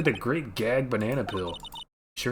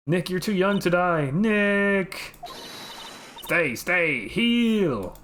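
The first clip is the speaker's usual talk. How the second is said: frantic shout; 7 semitones higher, much slower than usual. Acted. Calling to her mauled friend, frantic high shout. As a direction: scream for him not to die.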